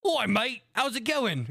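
high, exaggerated bad British accent; hammed-up British "mate" greeting; botched British accent. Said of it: "supposed to be like this posh British".

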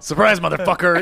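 high, loud shouted ambush; mock surprise attack. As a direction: jump out and yell it for laughs. Acts out jumping up behind dad.

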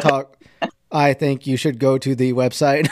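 stiff, monotone robot delivery. Retold or imitated. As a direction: read it flat like a robot. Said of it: "she sounds like a robot".

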